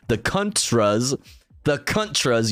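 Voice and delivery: Contras said as "CUNT-ruz"; first vowel of Contras twisted to "uh"; deliberate mispronunciation. Shown as a demonstration. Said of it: "you mean?".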